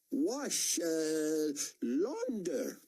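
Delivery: high, slow, halting foreign barman voice; a big barman feeling for each English word; slow and high, barely speaks English. A narrator's reading. Barman searching for words.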